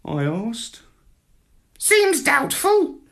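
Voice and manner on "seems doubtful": high, slow parrot voice, dismissive; doubtful parrot. A narrator's reading. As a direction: shrug it off as the bird. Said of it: "the parrot told me".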